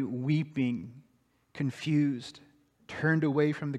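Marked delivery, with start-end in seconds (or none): none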